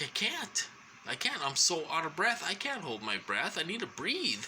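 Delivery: high-pitched re-enacted pleading; retold desperate protest. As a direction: act out pleading with the nurse, voice lifted. Acts out breathless protest to nurse.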